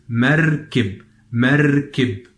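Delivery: MERKIB in two clear syllables, r rolled. Shown as a demonstration. Teacher repeats the Arabic for boat, rolled r in merkib. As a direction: roll the r in MERKIB, then finish on kib. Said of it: "stress on the letter Ra".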